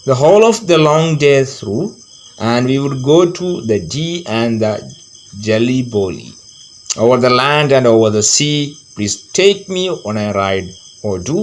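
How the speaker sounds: slow, measured verse reading; poem recitation. A narrator's reading. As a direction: recite the verse slowly for pupils.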